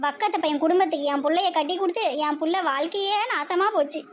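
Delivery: wailing, rhythmic rant of curses; hammed-up lament. Mother bewailing her daughter's married life, mock-tearful lament. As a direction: lament theatrically in rolling rhymes. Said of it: "இவ்வளோ நேரம் அழுதுகிட்டு இருந்தீங்களோ".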